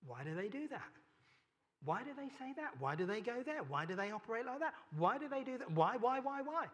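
puzzled, rising frustrated whys; exasperated questioning. Retold or imitated. Church member frustrated at others' ways, exasperated. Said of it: "your response to it is this".

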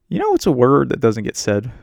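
lightly put-on actor's voice with a questioning lift; a hint of a badly faked Steve Carell; bad Steve Carell accent. Host auditioning a movie line as Steve Carell, bad accent. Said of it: "that was a really bad accent".

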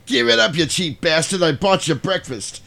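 mock irritated demand; Joe from Reservoir Dogs. Boss scolding the man who won't tip, mock irritation. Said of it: "was Joe from Reservoir Dogs".

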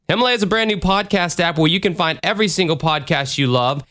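brisk sponsor read; fast ad read. Acted. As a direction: rattle off the ad copy.

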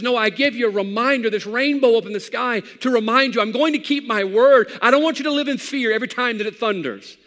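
lightly voiced God promising to keep his word; preacher voicing God's rainbow promise. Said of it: "God says".

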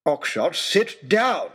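high, loud, slow furious roar. Acted. Lord Daunt roaring at Oxshott to sit. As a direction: roar the order, spacing it out. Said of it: "roared Lord Daunt".

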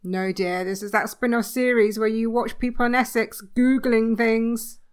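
calling out. Acted. Wife calls back from another room.

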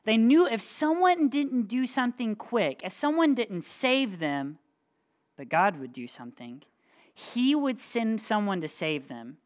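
lively read-aloud for a youth group; storyteller voice, building suspense; dramatic storytelling. Acted. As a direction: tell the Bible story with drama. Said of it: "read it kinda dramatically too".

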